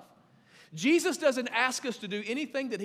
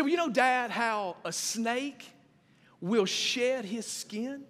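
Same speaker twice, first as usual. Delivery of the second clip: put-on young son; 4 semitones higher, much slower than usual. Father voices son explaining baptism.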